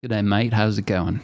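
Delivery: exaggerated Australian accent on G'day, mate; broad mock Australian greeting. Shown as a demonstration. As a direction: lay the Australian accent on thick. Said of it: "It's much more pronounced than Pest".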